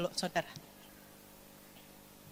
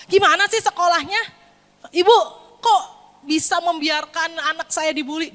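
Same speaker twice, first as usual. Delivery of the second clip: raised-voice indignant parent; acted outrage, pitched up; angry complaint; 5 semitones higher, 3 dB louder than usual. Parent confronting the school over bullying, angry. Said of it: "Apakah kita marah-marah sama sekolah?".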